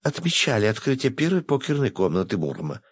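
rattling on excitedly. Acted. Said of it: "затараторила девушка".

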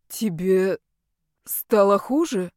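slow, puzzled asking; baffled question. Acted. Yar puzzled, asking the girl if she got worse. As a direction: ask in total bewilderment. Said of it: "с огромным недоумением спросил Яр".

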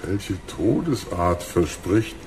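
langsam, leiser, genießerisch; genüsslicher Schurke. Acted. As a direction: koste jede Mordidee aus. Bösewicht Krug schwelgt in Mordfantasien. (langsam schwelgender Bösewicht)

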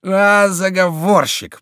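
high, loud and slow; furious mocking cry; angry taunt. A narrator's reading. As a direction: spit the accusation. Chico beating the duke.

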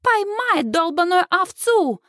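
put-on high, slow taunting echo of a British accent; drawn-out jeering imitation of British speech; boys mimicking her. A narrator's reading. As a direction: drag her words out to tease. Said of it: "идеально копируя британский акцент".

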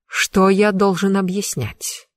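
slow, dull, hollow voice; muffled low voice. Acted. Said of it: "Голос мага звучал глухо".

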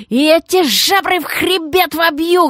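raging hysterical yell; hysterical hoarse yell. Acted. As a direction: howl it, voice cracking. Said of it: "истерично заблажил, срывая и без того сиплый голос".

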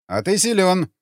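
grinning, impressed remark; smirking. A narrator's reading. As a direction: say it with an approving smirk. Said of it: "ухмыльнулся патрульный".

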